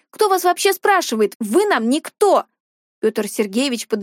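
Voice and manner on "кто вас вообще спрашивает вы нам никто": angry retort. Acted. Girl shouts at stepfather.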